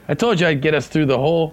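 radio pilot voice. Shown as a demonstration. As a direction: rattle it off like a cocky pilot. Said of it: "that might be me talking over the radio".

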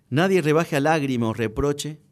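measured recital of verse, falling line by line; poem recitation. Acted. Guest quotes Borges's poem to the host, lightly recited verse.

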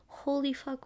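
stunned whisper; whispered holy fuck. Retold or imitated. Packing up, shocked at her mugs, whispering. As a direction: breathe it out in disbelief.

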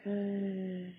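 soft, unhurried guidance with long pauses; guided meditation. Real, not acted. Yoga teacher guiding eye exercises, softly meditative. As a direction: gently lead them through it, trailing down quietly.

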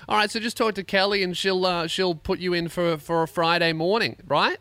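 sing-song it like a friendly receptionist; chirpy receptionist. Retold or imitated. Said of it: "She goes".

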